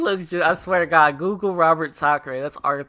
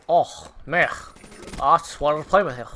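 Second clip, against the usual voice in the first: imitating a gamer; 2 semitones lower, faster than usual. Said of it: "That's how he talks".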